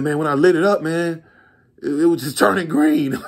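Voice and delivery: high, half-laughing complaint; complaining buyer. Retold or imitated. Buyer describing the fake crack, high laughing whine. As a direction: mimic the buyer whining through a laugh. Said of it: "He said".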